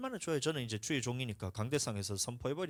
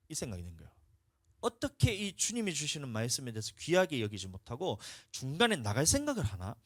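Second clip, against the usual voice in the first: normal talking voice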